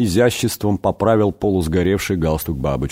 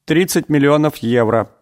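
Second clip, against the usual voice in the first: plaintive whimper; 7 semitones higher than usual. A narrator's reading. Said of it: "жалобно всхлипнул Иуда".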